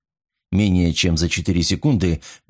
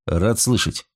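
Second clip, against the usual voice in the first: cold smirk; slower than usual. Acted. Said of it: "холодно усмехнулся Николсон".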